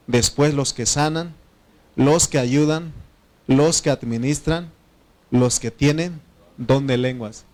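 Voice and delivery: measured, projected Bible reading; scripture reading. Real, not acted. Preacher reads the list of gifts to his church, measured scripture reading. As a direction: read the list out firmly, pausing after each item.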